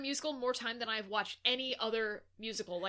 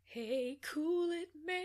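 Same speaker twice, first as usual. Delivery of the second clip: higher, put-on mimicry of cool it man; mock voice; 7 semitones higher, much slower than usual. Friend mimics her cohost's line in a silly voice. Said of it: "mimicking the line, far timbre".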